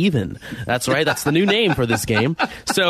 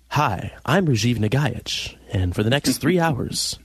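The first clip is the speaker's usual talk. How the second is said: slow smooth audiobook narrator; Rajiv as audiobook narrator; 3 semitones lower, slower than usual. Retold or imitated. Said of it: "Chapter one. Rajiv's journey".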